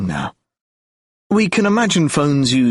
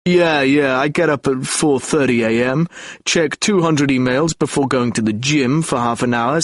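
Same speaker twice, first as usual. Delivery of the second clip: pompous voice. Retold or imitated. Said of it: "Mark puts on a pompous voice".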